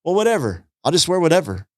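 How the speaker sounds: mock sulky whatever; petulant. Imagining snapping back at his wife, mock huffy. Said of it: "my flesh could easily say".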